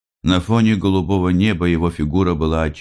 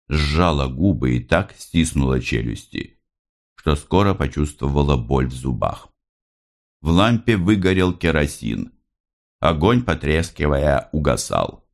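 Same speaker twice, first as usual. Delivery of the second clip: plain reading voice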